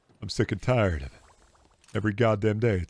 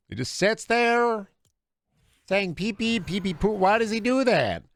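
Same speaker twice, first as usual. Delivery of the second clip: side character's voice; 12 semitones higher, 3 dB louder than usual. Retold or imitated. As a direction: draw out the question in a high, strange voice. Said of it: "a side character in Twin Peaks".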